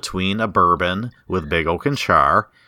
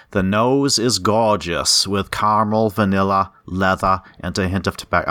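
put-on East Coast accent. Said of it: "I went with an East Coast accent".

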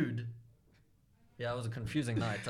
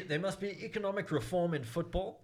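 Winston Churchill; 6 semitones higher, 7 dB louder than usual. Pretend. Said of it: "you sounded like Winston Churchill".

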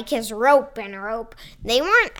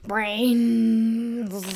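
zombie mumble; 2 semitones lower than usual. Acted. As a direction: moan it like the undead.

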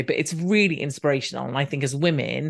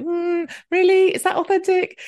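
sceptical mock; 5 dB louder than usual. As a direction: drag it out high in disbelief.

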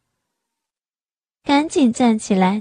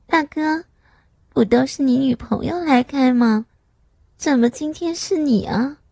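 flirty; 3 semitones higher than usual. Acted. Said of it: "然后媚笑着问".

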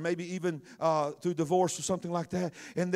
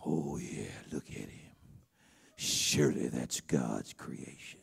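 deep soul singer's voice; 8 semitones lower, 3 dB louder than usual. Acted. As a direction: sink deep into a hushed seductive croon. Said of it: "in my soul singer voice".

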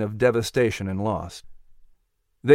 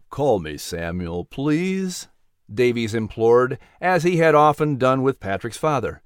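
gentle reverend voice; 2 semitones lower than usual. Acted. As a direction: comfort a grieving young man. Reverend's low voice.

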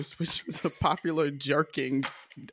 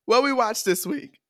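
excited; 8 semitones higher, 4 dB louder than usual. Real, not acted. Host hyping the segment.

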